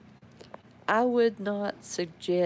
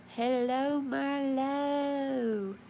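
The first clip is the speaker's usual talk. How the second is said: pet voice; 7 semitones higher, much slower than usual. Real, not acted. Greeting dog in pet voice.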